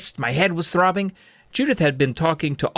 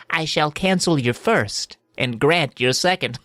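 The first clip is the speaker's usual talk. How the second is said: wish-granting woman; 2 semitones higher than usual. Acted.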